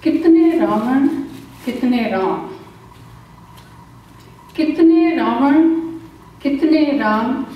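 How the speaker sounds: measured recital with long dramatic pauses and repeated lines; poem recitation. Acted. Poet reciting कहाँ हो मेरे Ram at a temple, dramatic recital. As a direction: recite it like a stage poet, lingering on each repetition.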